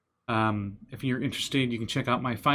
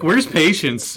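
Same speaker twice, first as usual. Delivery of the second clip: laughing shout; 5 semitones higher, 10 dB louder, slower than usual. Retold or imitated. Mocking a friend's character.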